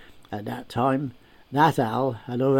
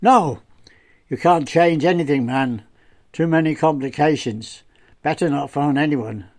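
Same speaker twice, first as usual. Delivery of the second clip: put-on firm, louder older local man, stern warning; Paddy; 3 semitones higher, 5 dB louder than usual. Narrator voices Paddy warning.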